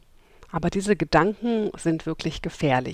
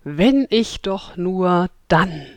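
inner voice; 4 dB louder, slower than usual. Retold or imitated. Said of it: "so einen inneren Dialog wie".

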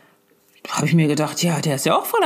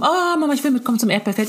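lightly voiced begging child, raised pitch at the start; a hint of a kid's eager pleading; pleading little son; 5 semitones higher, faster than usual. Mother imitating her son asking to come along, pleading.

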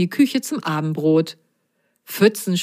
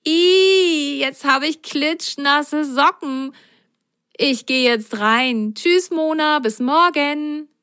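put-on high girlish voice, a bit whiny; child voice; 8 semitones higher, slower than usual. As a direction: play the little girl, squealing at wet socks. Carlotta voiced in story. (helle Mädchenstimme)

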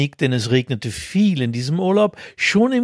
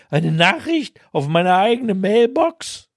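higher, hammed-up outraged cry; mock scream; 6 semitones higher than usual. A narrator's reading. His cry recorded on the mailbox in the rain, mock scream. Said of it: "meinen Schrei".

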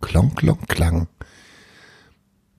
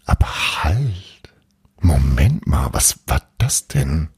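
hushed suspense; 3 semitones lower than usual. A narrator's reading. Suspenseful discovery.

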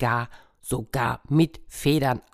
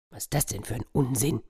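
dismissive cat; 5 dB quieter, faster than usual. Acted. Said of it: "sagte die Katze".

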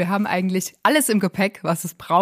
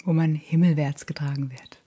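poetic whisper; 3 semitones lower than usual. Real, not acted. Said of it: "Um es ein bisschen poetischer auszudrücken".

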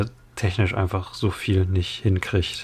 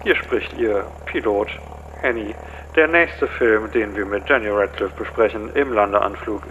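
lightly voiced pilot announcement; airline pilot. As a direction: read it like a cockpit announcement. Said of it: "Wie macht man so eine Pilotendurchsage".

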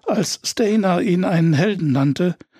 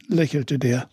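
plain reading voice

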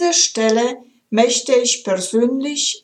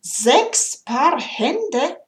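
slow, higher, incredulous Sechs Paar Hände; doubtful angel; 4 semitones higher, much slower than usual. Acted. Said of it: "Da schüttelte der Engel den Kopf und sagte".

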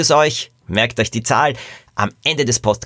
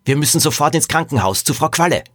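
pressing, raised-pitch exclamation; urgent call; 6 semitones higher than usual. Acted. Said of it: "sondern rief".

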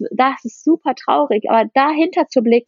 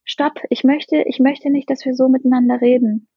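calm loving boundary. Shown as a demonstration. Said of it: "Grenzen aufbauen in Liebe".

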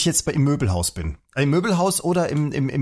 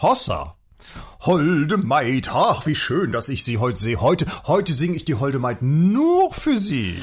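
schlager serenade; much slower than usual. Acted. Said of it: "als alternder Schlagersänger".

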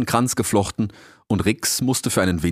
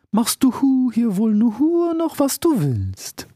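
high, very slow, heavy elder rebuke; slow, stern old turtle. Acted. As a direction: scold him with weary patience. Turtle speaks slowly.

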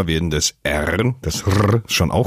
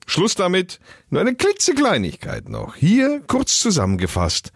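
high voice; 12 semitones higher than usual. Pretend. High mock announcer voice.

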